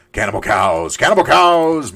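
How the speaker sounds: loud chant building to a high yell; mock frenzy. Player as a cow attacking cows, mock frenzied yell.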